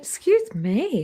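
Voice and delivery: said through a yawn. Real, not acted. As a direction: stretch it out mid-yawn. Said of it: "I don't know why I'm yawning".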